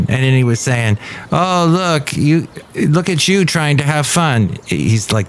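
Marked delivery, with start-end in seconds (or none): 1.3-4.6 lightly imitated German accent; mock German comedian voice. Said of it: "doing the German accent".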